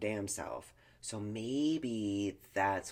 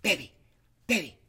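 cooing partner; 8 semitones higher, 8 dB louder than usual. Retold or imitated. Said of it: "she'll be like".

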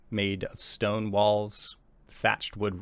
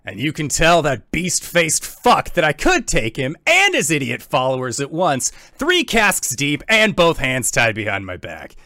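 loud, raised gruff bar brawler; gruff, forceful tavern boast; gruffer voice; 5 semitones higher, 8 dB louder than usual. Acted. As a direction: boast loudly like a gruff barroom fighter. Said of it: "you hear a gruffer voice say".

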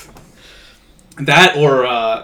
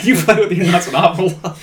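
quoted again, lightly voiced; 4 semitones higher than usual. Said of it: "But, yeah".

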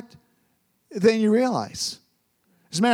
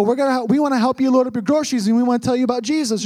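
put-on eager boys; 3 semitones higher, faster than usual. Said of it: "they go".

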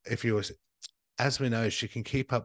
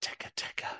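whispering; 6 dB quieter, faster than usual. Pretend. Spooky name whispered.

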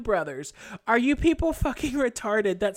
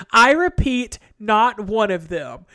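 emphatic; 3 semitones lower, 6 dB louder than usual. Retold or imitated. Reading angry email aloud.

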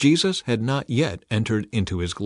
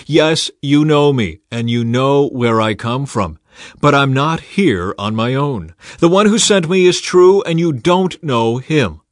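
calling out; 3 semitones higher, 6 dB louder than usual. Acted. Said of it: "he called out".

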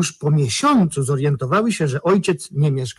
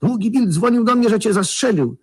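much higher, louder amazed question; retold astonishment; 8 semitones higher, 4 dB louder than usual. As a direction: disbelief at seeing him alive. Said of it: "zawołał".

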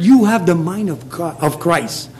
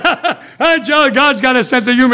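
higher, chuckling reply; laughing counselor; 5 semitones higher than usual. Retold or imitated. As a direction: laugh as you tease him gently.

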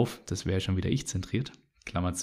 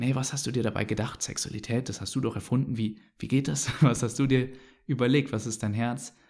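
quiet prayer. Pretend. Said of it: "Und ich frage ihn".

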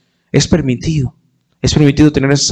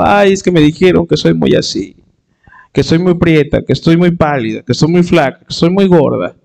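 whining; 3 semitones higher than usual. Retold or imitated. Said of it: "nos vamos chillando".

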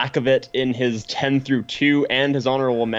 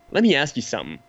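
put-on thick comical Boston accent, pitched up at the end; 3 semitones higher, faster than usual. Quoting Affleck to Renner, in a comical Boston accent. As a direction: ham up a Boston tough guy's challenge in a Boston accent. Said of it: "In this really thick, comical Boston accent".

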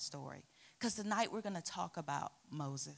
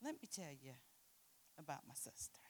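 dramatic whisper; 5 semitones lower, 14 dB quieter, faster than usual. Real, not acted. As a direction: lean in and whisper the secret. Dramatic aside before sister story.

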